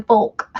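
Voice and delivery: "Folk" as a separate, fully voiced syllable. Shown as a demonstration. Resident unsure of local usage, "Folk" said separately. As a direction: sound out "Folk" on its own. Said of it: "I don't remember how the locals say it".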